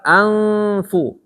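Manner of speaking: ANFU with a long level hum before a light F; sustained flat "Anfu"; flat nasal. Shown as a demonstration. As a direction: keep lips flat while holding the n of "Anfu". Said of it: "berarti datar".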